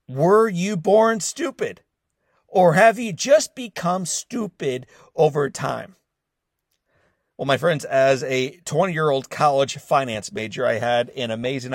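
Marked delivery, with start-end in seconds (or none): 0.1-5.9 loud, high, slow sneering question; gruff insult. Retold or imitated. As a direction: bark the insult like an angry caller. Opening hook, retold caller's insult.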